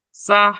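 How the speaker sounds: "Ça" held long on a high tone. Shown as a demonstration. Teacher showing the ton haut in a word, high tone. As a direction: say "Ça" drawn out, pitched high and level. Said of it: "c'est ça le ton haut".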